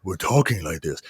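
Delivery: lightly voiced forced-deep talk; demo of low voice. Shown as a demonstration. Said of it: "when you try to go too low".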